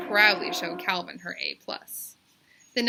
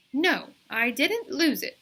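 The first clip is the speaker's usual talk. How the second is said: stern teacher; 6 semitones higher, 6 dB louder, slower than usual. A narrator's reading. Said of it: "said Miss Jules sternly".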